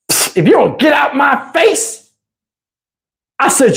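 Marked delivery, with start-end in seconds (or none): 0.1-2.1 1 mock snapping woman. Woman telling him off.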